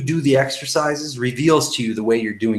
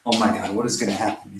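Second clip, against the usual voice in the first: acted fretting, swelling then sinking to a mutter; worked-up victim. Shown as a demonstration. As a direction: fret aloud like a demonstrated victim mindset. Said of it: "let's just demonstrate that victim exercise".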